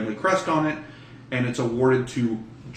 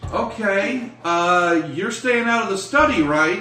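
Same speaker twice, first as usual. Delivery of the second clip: stern mother; 5 semitones higher than usual. Acted. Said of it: "she was like".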